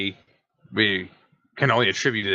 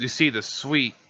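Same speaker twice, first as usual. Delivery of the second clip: normal talking voice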